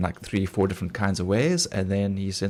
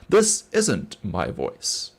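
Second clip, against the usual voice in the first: THIS leaned on, then a slow, measured "isn't my voice"; slow, deliberate word-by-word emphasis on "This isn't my voice"; emphatic AI voice; much slower than usual. Retold or imitated. Showing friends how the AI reads, slowly emphasizing "This isn't my voice". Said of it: "she actually emphasizes, like, on certain words".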